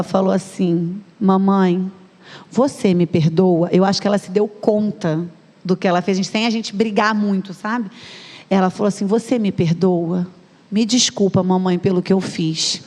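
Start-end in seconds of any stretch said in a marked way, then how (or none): 1.2-3.7 slow, lower, imitated contrite child; child asking forgiveness. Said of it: "quando ela veio pedir perdão". 9.0-12.8 slow, low-key imitated apology; child asking forgiveness. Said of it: "quando ela veio pedir perdão".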